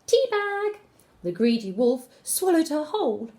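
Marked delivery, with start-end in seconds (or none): 0.1-0.8 high startled shout. Acted. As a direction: cry it out suddenly. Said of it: "before Grandma could shout".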